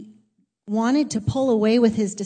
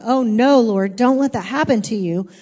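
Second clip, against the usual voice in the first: alarmed protest; 6 dB louder than usual. Retold or imitated. Peter's protest acted in retelling.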